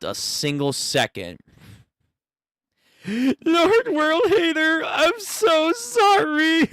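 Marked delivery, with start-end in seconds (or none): 3.1-6.7 high, slow simpering servant; groveling minion. Acted.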